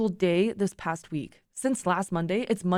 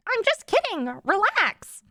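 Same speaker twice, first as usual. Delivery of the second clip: much higher teasing voice; high pitch; 11 semitones higher than usual. Acted. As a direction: tease him up high. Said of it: "she said in a high pitch".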